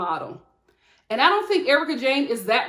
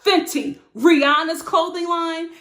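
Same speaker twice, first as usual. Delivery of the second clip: higher, falling correction on "Fenty"; Dorit; 5 semitones higher, 4 dB louder than usual. Retold or imitated. Dorit correcting Sutton about a singer's line, insistent "Fenty". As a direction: insist on "Fenty", spelling it out for her. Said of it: "And Dorit is like".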